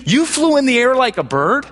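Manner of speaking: 3 gasp it out like he can't believe flying; 1 amazed great-grandfather. Retold or imitated. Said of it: "His response is".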